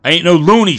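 furious high shout. Acted. Jack yelling at the bartender, furious shout. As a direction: yell it, outraged. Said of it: "shouted Jack".

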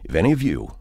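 low, hushed coach with a grievance; a soft, serious warning from a protective husband; quietly menacing, pitched well down; earnest team coach. Acted. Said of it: "getting a guy on the radio and saying".

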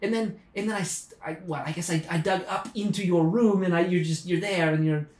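put-on a light Australian accent. Digger from down under apologises, light Australian accent. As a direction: play it as a lightly done Australian. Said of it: "is that an Australian accent?".

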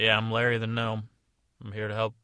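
a hint of a gruff little gnome; Larry the Gnome. Gnome introducing himself at the fairy's door, loud. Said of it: "I said".

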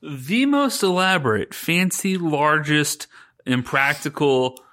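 emphatic, building list; excited listing. Real, not acted. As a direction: pile on the adjectives with glee.

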